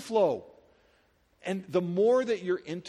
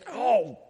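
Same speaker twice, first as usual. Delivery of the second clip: loud, higher cry of mock pain; acted pained "oh"; 4 semitones higher, 5 dB louder than usual. Pastor imitating someone who hit a thumb, pained cry. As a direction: yelp as if hurt. Acts out hitting his thumb.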